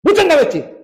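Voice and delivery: loud, high yell to wake her; retold shout. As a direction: snap her awake with a sharp cry. Father wakes sleeping daughter. (자는 딸을 깨우며 높게 소리치는 아빠)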